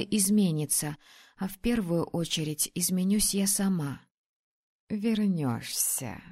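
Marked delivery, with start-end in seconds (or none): 4.9-6.2 soft, slow, gentle dragoness; affectionate reassurance; tender. Acted. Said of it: "ласково подтвердила Фрида".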